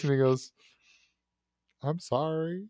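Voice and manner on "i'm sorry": soft, small, hesitant voice; weak, timid apology. Retold or imitated. Prisoner apologizing on the lawyer's phone, weak and timid. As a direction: say it meekly, barely daring to. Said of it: "weak and timid voice".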